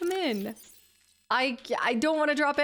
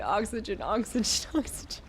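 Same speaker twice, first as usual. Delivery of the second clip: lizard voice. Retold or imitated. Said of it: "I need that in the lizard voice".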